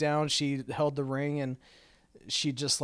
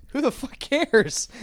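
loud mock shout; 11 semitones higher, 8 dB louder, slower than usual. Mocking careless attitude.

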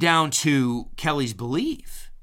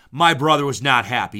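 louder, still chuckling through it; laughing repeat; 6 dB louder than usual. Real, not acted. Retelling brother's defeat to listener, louder and amused.

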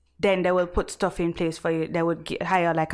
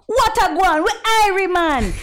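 put-on stereotype Jamaican accent; 10 semitones higher, 6 dB louder than usual. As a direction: ham up a cliché Jamaican accent. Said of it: "they're gonna be like".

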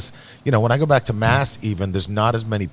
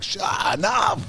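retold shout; 4 semitones higher than usual. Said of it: "I was like".

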